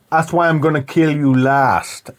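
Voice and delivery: slow, lightly imitated threat; film hero. Hero promising to kill Sully last, slow light impression. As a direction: draw the line out deliberately. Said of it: "he says to him".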